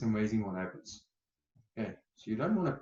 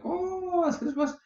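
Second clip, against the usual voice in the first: much higher, louder, slow melodramatic wail; mock catastrophizing; 14 semitones higher, 7 dB louder, much slower than usual. Coach mocking someone catastrophizing, high slow melodrama. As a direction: ham up the end of the world. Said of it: "look at that catastrophizing".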